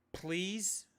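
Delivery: breathy whispered please. Retold or imitated. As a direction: whisper it like a begging aside. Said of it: "stood there in disbelief going".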